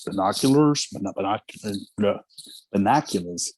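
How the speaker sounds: put-on binoculars in a light New York cop accent, a bit like Bugs Bunny; cop's New York accent. Actor recalls his cop audition, binoculars in a light New York accent. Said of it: "I had to say the word binoculars".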